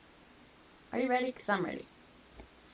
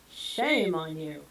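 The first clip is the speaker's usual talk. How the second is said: slow mock scolding; 5 semitones lower, much slower than usual. Mock scolding viewers, slower.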